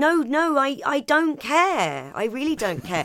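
the Cat shrugging it off; mock cat voice. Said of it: "He's going".

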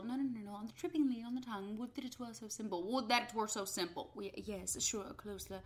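hushed, gentle corrections; quietly steer the actor; soft patient coaching. Retold or imitated. Director gently correcting actor, soft and patient. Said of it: "Ray Fiennes goes".

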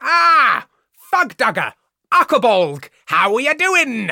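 loud, high holler; hammed-up bro greeting. Host greeting invented creatures as mates, hammed-up holler. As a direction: hail them with booming mock heartiness.

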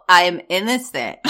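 mocking voice for "I am innocent"; hammed-up mock of Jen's "I am innocent". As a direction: sneer through "I am innocent" as Jen.

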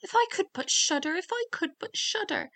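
high-pitched wishful cry; youth's high storybook lament; declaring aloud. A narrator's reading. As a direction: wail the wish in a lifted voice. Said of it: "said quite loudly".

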